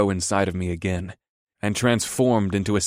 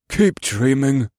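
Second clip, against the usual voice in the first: slow, higher-pitched derision; snorting scorn; 5 semitones higher, 3 dB louder, slower than usual. A narrator's reading. White-haired soldier to his boasting comrade, scornful. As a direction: shoot him down with scorn. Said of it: "the white-haired soldier by the tree snorted".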